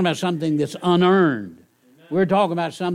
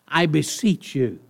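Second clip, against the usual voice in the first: gentle plea. Shown as a demonstration. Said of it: "is more of a gentle plea".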